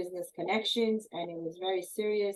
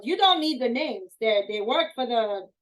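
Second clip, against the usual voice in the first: loud, higher angry retort; yelling; 5 semitones higher, 4 dB louder than usual. Retold or imitated. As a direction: put the guard in his place. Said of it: "And he yelled at him".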